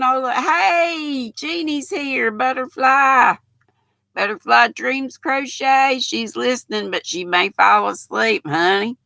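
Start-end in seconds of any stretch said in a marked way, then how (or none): 0.0-6.0 calling out. Real, not acted. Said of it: "I'm shouting".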